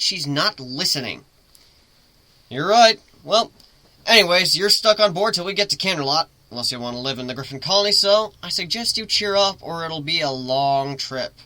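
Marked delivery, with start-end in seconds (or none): 2.5-6.3 higher, louder breezy brush-off; cheerful. Acted. Captain cheerfully dismissing the sulking pony, breezy. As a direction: shrug it off brightly.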